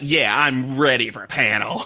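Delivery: mock proud, slowed down. Teasing Bianca about her celebrity list, imitating Bianca, mock-proud. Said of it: "then she's like proud of herself".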